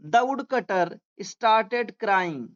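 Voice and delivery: very slow, word by word dictation; slow classroom reading aloud. Shown as a demonstration. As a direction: read it out slowly for students to follow. Teacher dictating slowly.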